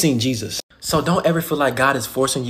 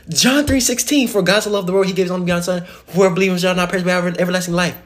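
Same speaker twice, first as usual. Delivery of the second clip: fervent verse; 4 semitones higher, 3 dB louder, faster than usual. Acted. Preacher repeats verse with force.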